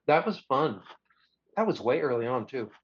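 talking with mouth full; words around a bite of apple; eating an apple. Real, not acted. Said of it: "I'm eating an apple".

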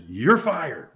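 high-swooping retold dismissal; mock firing. Boss firing the storyteller at his desk, mock indignant. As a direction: swoop up high, imitating a boss sacking someone.

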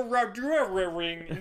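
slow, rolled R mock accent; Team America accent. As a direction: stretch it out with rolled R's. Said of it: "they throw R's into everything".

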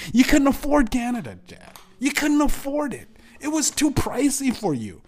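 shrieking high and loud, sneering; high furious yelling. Real, not acted. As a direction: scream the mockery at him. Screaming insults at dad.

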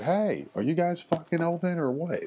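imitating a rude customer hollering, voice pitched high; a drive-thru customer hollering through the window, in a high, mocking voice. To the Wendy's worker, a customer's high-pitched mock holler. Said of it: "what are you doing all that hollering for".

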